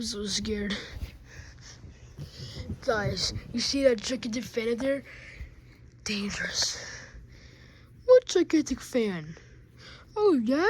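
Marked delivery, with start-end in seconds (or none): 6.0-6.8 hushed ominous whisper; whispered warning. Acted. Toy warns friends of the gigantic fan, whispering. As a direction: warn them under your breath.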